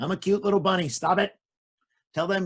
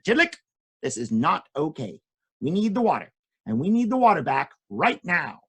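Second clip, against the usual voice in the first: serious koala. Acted. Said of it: "very serious".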